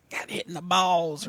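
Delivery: high, far-off kid imitating a cartoon mouse; a light squeaky kid voice, quietly; kid imitation voice. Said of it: "wasn't your grandson always imitating the line of".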